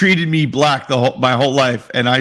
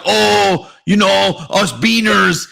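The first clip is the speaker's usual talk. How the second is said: higher, lightly mocking impersonation; put-on comic shtick, voiced higher in mockery; Carlos Mencia; 5 semitones higher, much slower than usual. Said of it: "he does the whole, like".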